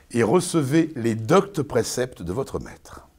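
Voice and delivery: slow, grand theatrical delivery; slow stage declamation. Acted. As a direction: declaim like a stern master. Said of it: "n'importe quoi".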